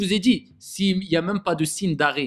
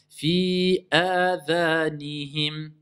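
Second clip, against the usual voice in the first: slow, drawn-out tajwid chant; Quran recitation; much slower than usual. Shown as a demonstration. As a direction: recite it slowly with long prolongations. Teacher recites Quran verse. (récitation lente du Coran)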